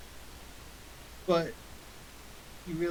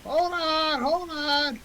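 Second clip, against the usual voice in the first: high, loud little voice calling; pixie; 13 semitones higher, 6 dB louder, much slower than usual. Acted. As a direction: call out from the back, tiny and high. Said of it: "a little voice out of the back".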